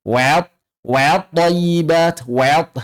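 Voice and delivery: "wat" overly thinned towards wet; exaggeratedly thin waw. Shown as a demonstration. Teacher imitating people who overdo it, over-thin "wat". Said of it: "wawunya dibaca berlebihan tipis".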